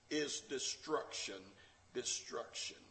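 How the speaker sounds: dropping to a breathy hush on destruction. Real, not acted. Preacher hushing the congregation to a whispered warning. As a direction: let destruction fade almost to a whisper.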